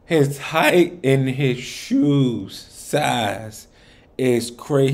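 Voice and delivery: high, loud disbelieving shout; shocked outburst. Real, not acted. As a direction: blurt it out in disbelief. Shocked reaction to diss line.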